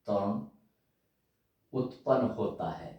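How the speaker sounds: word by word with long pauses, for copying down; slow dictation. Shown as a demonstration. Teacher dictating to students, slow and halting. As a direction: dictate slowly so students can write. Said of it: "तो लिखिए".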